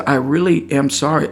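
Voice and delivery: gently sincere apology; calm, quiet. Retold or imitated. Apologizing to the upset woman, calm and quiet. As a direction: apologize softly, without any fuss. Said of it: "in a very calm, quiet manner".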